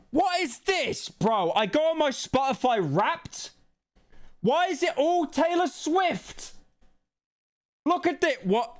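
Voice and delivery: genuinely baffled at what he sees; real disbelief. Real, not acted. Finds a pop singer in his Wrapped.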